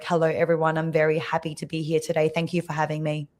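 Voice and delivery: flat, low monotone greeting. Shown as a demonstration. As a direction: drone it with no melody. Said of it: "So if I talk monotone".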